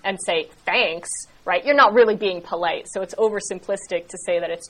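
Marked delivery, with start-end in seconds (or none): 0.6-1.1 clipped-off sarcastic thank-you; mock-grateful, impolite on purpose. Shown as a demonstration. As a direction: say it insincerely, as a demonstration. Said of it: "if you say it sarcastically".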